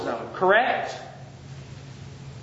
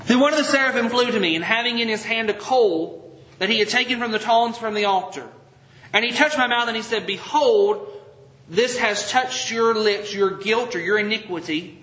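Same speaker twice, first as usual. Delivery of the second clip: measured, solemn reading of the passage; scripture reading. Acted. Pastor reading Isaiah to the congregation, solemn. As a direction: read it out like holy writ.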